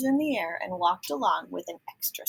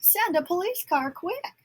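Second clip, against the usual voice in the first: much higher, urgent order; urgent call; 10 semitones higher than usual. A narrator's reading. Michael asking headquarters for a car, high and urgent. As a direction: hurry them with a high urgent voice. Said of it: "yelled Michael".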